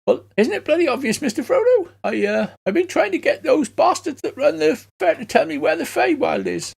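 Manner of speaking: high squeaky halfling pleading; high hobbit voice. Acted. Kenku explains to the cop in a high hobbit voice. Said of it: "he's speaking in this voice".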